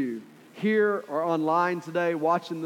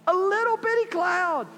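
very high, hushed wonder; excited servant, even higher; 14 semitones higher than usual. Acted. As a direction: say it again, almost squeaking with awe.

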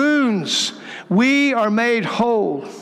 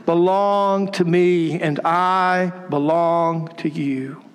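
slow, gentle reassurance that softens at the end; tender voice of God; 3 semitones lower, much slower than usual. Retold or imitated. Pastor voicing Jesus to the congregation, slow and tender. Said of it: "He's saying".

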